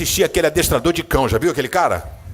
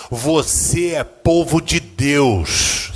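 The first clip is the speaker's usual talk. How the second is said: slow emphatic; much slower than usual. Shown as a demonstration. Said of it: "Você crê nisso? Diga amém".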